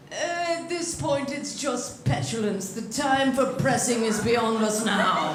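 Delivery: slow, understated commentator imitation; imitated sports announcer. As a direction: mimic an announcer's measured verdict, drawn out. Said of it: "and the announcer goes".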